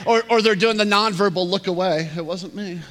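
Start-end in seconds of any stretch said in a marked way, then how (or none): 2.2-2.8 sheepish denial. Retold or imitated. Nonverbal look-away denial, softly.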